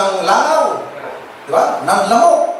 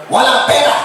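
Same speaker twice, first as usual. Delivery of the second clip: sharp, higher mock snap of a stingy parent; mock refusal; 5 semitones higher than usual. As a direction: toss it off like a parent brushing off the kid. Parent refusing money to child. (pabirong singhal na "walang pera")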